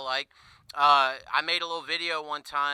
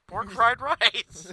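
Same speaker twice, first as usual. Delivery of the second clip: mock accent; 6 semitones higher, 4 dB louder, much slower than usual. Punchline in mock voice.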